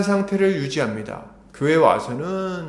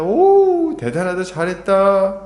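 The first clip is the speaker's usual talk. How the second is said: high, drawn-out ooh, then slower praise; imitated admiring praise; 4 semitones higher, 3 dB louder, much slower than usual. Preacher imitating people praising someone who evangelized, admiring. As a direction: act out an impressed onlooker. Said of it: "감탄하고 칭찬합니다".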